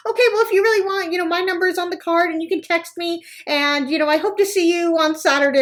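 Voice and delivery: high, fast, eager; fast eager saleswoman. Retold or imitated. Saleswoman giving her number, fast and eager. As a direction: rush the pitch out cheerfully. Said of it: "she's like".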